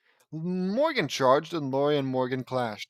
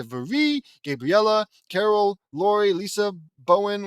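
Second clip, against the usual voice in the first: accusing roll call; 4 semitones higher, 4 dB louder than usual. Pretend. Pointing at each character.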